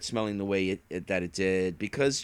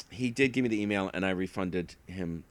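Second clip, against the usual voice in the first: ordinary delivery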